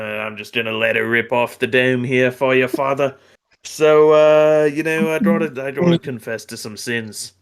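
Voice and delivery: put-on dropping the r, Boston accent; lightly done Boston accent. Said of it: "a Boston impression".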